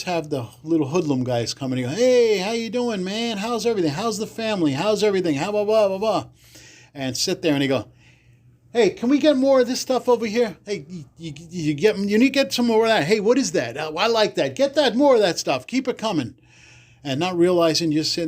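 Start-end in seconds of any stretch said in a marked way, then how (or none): 1.9-6.3 hoodlum greeting. Retold or imitated. 8.7-16.3 higher pitched mock wiseguy calling for more; demanding hoodlum voice.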